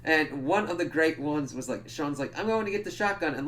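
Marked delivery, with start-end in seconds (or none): 2.4-3.3 mock Sean voice.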